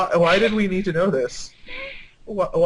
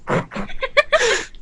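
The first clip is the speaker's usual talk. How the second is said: breaks into laughter; 14 semitones higher than usual. Real, not acted. Cracks up mid reading.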